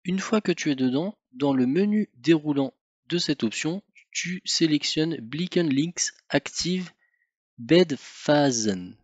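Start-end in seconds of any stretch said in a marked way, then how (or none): 5.2-9.0 slow, careful German read with a French accent. Real, not acted. Reading a German menu option to the viewer, in a French accent. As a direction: spell out the German words slowly in a French accent. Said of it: "je suis désolé pour mon accent".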